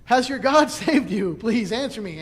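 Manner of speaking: high, loud pleading call, a bit hammed-up; mock anguished shout to Daniel; anxious calling out. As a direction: call down into the den, begging for an answer. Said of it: "he calls out like".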